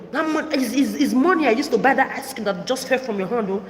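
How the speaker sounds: high mocking mother's voice; imitating her mother. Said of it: "what she told me".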